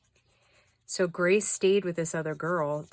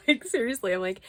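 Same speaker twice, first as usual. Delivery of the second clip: exasperated; 6 semitones higher, 6 dB louder, faster than usual. Real, not acted. Exasperated outburst.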